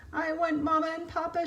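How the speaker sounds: a lightly acted lost-chick cry; mild wail. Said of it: "she wailed".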